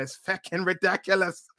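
put-on Irish accent; mock Irish accent for a wrestler's rant. Wrestler's angry promo imagined by a fan, Irish accent. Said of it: "in that Irish accent".

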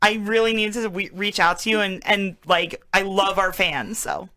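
put-on ditzy surfer-girl chatter. Prank caller sweet-talking a fan, lightly surfer girl. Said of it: "Why are you going surfer girl?".

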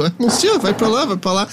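a hint of a Parisian giving quick directions; French passerby. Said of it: "pedir informação em francês".

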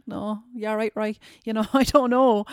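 laughing through the words; embarrassed giggly answer. Retold or imitated. Laughing retelling her reply to reporters.

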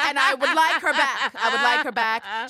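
lightly voiced Villanelle, wistful; a hint of the assassin pining. As Villanelle, wanting Eve back, mock pining. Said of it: "Villanelle's like".

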